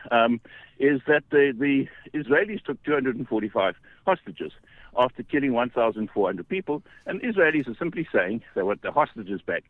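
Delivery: breathless from walking uphill; out of breath. Real, not acted. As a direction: talk while winded from the climb. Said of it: "I'm out of breath, I'm walking, up a hill".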